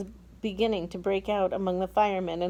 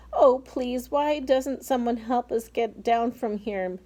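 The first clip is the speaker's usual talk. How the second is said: a higher, louder plea for help; calling out; 5 semitones higher, 3 dB louder than usual. Acted. Miss Spider begging to be rescued from the peach, calling out. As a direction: call down for help, pleading. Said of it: "Miss Spider called out".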